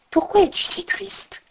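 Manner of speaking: hollow, echoing voice from under veils; cavernous voice. Acted. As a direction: speak as if from inside a cavern. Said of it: "demanda-t-elle d'une voix caverneuse".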